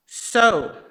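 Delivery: put-on a loud African-accented "So"; imitated African accent. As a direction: start the guide's warning in a thick African accent. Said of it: "with his thick African accent".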